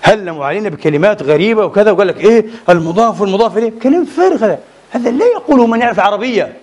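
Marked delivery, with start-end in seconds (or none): 3.8-6.5 high, laughing dismissal; laughing scorn. Real, not acted. Lecturer laughing at the opponents' grammar claim, scornful laugh. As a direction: laugh it off as nonsense.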